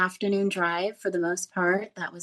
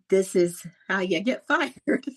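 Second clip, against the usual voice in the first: laughing; slower than usual. Retold or imitated. Nervous laugh recalling mistake.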